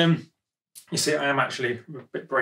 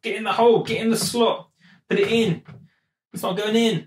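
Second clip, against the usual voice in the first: straining coax; 6 semitones higher than usual. Real, not acted. Forcing the sampler into place.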